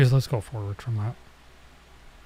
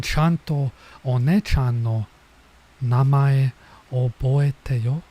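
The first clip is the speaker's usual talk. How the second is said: slow, louder big-sister tone; mild scolding older girl; 5 dB louder, slower than usual. Acted. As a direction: insist slowly she remember your name. Reading older girl's scolding line.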